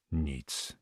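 low, subdued one-word reply; heavy sigh. A narrator's reading. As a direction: let it drop like a weary sigh. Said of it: "ciężko westchnął czarny korsarz". (ciężkie westchnienie)

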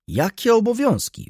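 high, loud outburst; exclaimed. A narrator's reading. Wokulski to friend, exclaiming high and loud. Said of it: "Wykrzyknął".

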